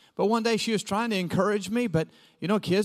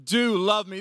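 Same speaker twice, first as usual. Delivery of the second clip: mock amazed; 2 semitones higher, 4 dB louder, much slower than usual. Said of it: "I'm like".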